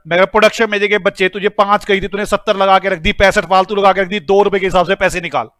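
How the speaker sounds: rapid-fire mock telling-off; acted scolding. Boss demands money back from production manager, mock scolding. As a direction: scold in one unbroken run, play-acting. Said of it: "डांटूंगा, मैं डांट रहा हूं".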